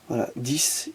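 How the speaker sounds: breathy whisper to himself. Real, not acted. Peering at a tiny sticker, whispering to himself. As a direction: murmur it under the breath, unvoiced. Reading a tiny label close up.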